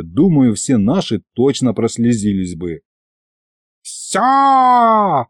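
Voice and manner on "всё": high triumphant cry; goddess shout. Acted. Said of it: "вдруг завопила анаконда мраковна".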